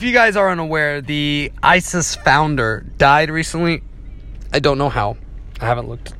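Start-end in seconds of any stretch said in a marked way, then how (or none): 4.5-6.1 hiccuping while talking; with hiccups. Real, not acted. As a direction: talk through the hiccups. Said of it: "oh, I'm sorry, I'm hiccuping".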